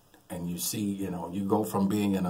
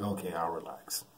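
softer, lower reluctant okay; grudging give-in; 5 semitones lower, 10 dB quieter than usual. Retold or imitated. Nephew to his buddy, softly and reluctantly giving in. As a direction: give in, still uneasy. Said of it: "It's like".

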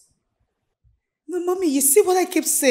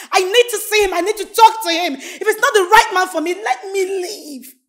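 raised, high-pitched frustrated outburst; loud, exasperated pleading; shouting; 5 semitones higher, 5 dB louder than usual. Acted. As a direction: shout your demand at your mother. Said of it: "Why are you shouting".

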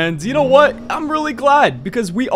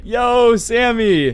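calling out; 3 semitones higher, much slower than usual. Pretend. Calling out to Sammy on return.

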